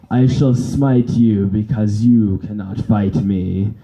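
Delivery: slow, solemn dark lord rhyming; a hint of a pompous overlord; dark villain voice. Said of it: "a Minister of Darkness versus".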